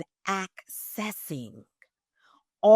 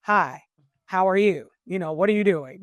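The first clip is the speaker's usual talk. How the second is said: loud formal greeting; 4 dB louder than usual. Shown as a demonstration. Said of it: "I'm not".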